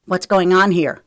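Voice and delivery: loud, groggy demand for answers; sleepy. A narrator's reading. Trent stumbles into the room, sleepy demand. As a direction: ask it as just woken. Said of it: "sleep coating his voice".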